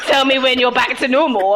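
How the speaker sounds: high, loud, laughing mockery of a man; cackling as she mocks him. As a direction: giggle through the line. Laughing through mock man voice.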